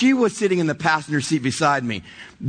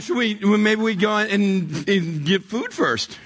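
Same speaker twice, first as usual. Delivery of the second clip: slow, halting suggestion, slightly higher; caught off guard; 3 semitones higher, slower than usual. Retold or imitated. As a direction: stumble through an unplanned invitation. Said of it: "hadn't planned on coming back".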